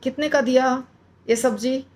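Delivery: haggling shopper asking the price; everyday bargaining question. Shown as a demonstration. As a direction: ask the vegetable seller casually. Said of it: "जैसे हम बोलते हैं ना".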